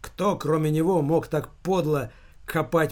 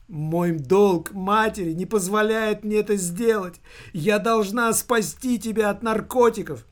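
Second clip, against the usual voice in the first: high, whining plea; whimpering; 5 semitones higher than usual. A narrator's reading. Mother pleads duty to save her son, whimpering. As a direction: whine plaintively in a raised pitch. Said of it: "захныкала она".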